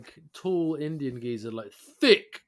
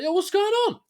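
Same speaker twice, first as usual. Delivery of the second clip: calling out; 5 dB louder, faster than usual. Retold or imitated. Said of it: "I'm like".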